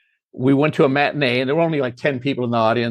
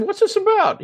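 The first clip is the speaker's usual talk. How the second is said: imitating Leslie Nielsen. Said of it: "he said".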